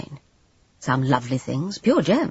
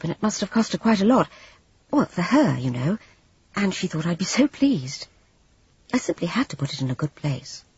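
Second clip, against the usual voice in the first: apologetic Jane; 3 semitones higher than usual. Acted.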